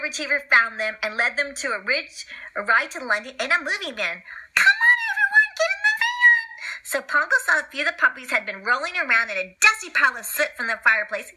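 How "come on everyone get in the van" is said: Labrador. Acted. Labrador calls them.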